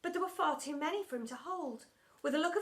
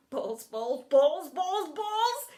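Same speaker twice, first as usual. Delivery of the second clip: obsessive muttering; 3 semitones higher, 6 dB louder, much slower than usual. A narrator's reading. Teacher carries on alone on the ground, obsessive muttering. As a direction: mutter that swells into a cry. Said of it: "he carried on muttering".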